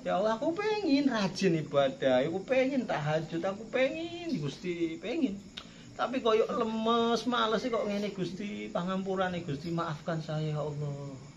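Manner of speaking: tearful pleading prayer. Pretend. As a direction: plead with God as if near tears. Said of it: "nambahnya dengan cara itu".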